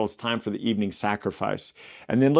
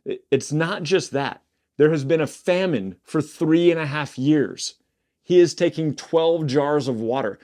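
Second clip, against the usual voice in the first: higher, slower, pressing the point; urgent emphasis; 5 semitones higher than usual. Real, not acted. Preacher urging the congregation to grasp the famine, higher and slower. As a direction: lean in so they grasp it. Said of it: "I need you to understand".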